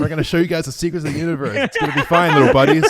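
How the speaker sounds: high, loud, laughing alien voice; condescending alien. Pretend. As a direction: talk down to humans like little pets. Voicing a superior alien.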